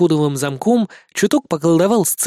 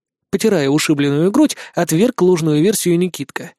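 ordinary delivery, nothing marked

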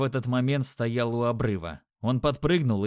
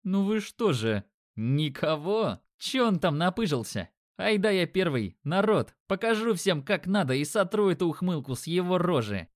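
higher, mock-hurt taunting; mock offended; 5 semitones higher than usual. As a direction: pout and play offended, then boast. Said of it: "притворно скорчил обидчивую рожу".

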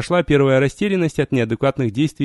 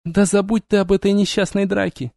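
breaking into a shout; 7 semitones higher than usual. A narrator's reading. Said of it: "сорвалась на крик вампиресса".

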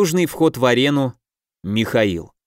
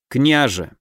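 cold voice. Acted. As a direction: address him icily as «Княже». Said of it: "мой голос похолодел".

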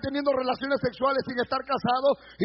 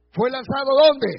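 shouted question; 7 dB louder than usual. Acted. Rhetorical shout to congregation.

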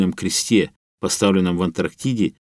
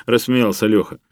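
plain reading voice

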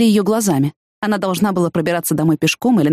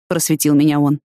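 ordinary delivery, nothing marked

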